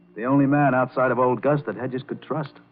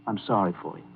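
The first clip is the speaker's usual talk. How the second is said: softer, lower consolation; tender sympathy; 5 semitones lower, 8 dB quieter, faster than usual. Acted. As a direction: offer sympathy quietly and sincerely. Consoling unhappy wife.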